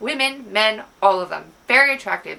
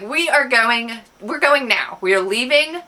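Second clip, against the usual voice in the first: firm insistence; 4 dB louder than usual. Retold or imitated. Retold insistence on leaving now.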